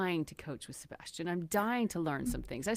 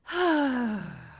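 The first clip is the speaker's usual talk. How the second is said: relaxing sigh; 4 semitones higher, 3 dB louder than usual. Shown as a demonstration. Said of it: "completely relax it out".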